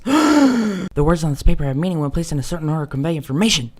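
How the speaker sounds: put-on loud, lecturing smug kid; condescending know-it-all. Pompous smart kid quote.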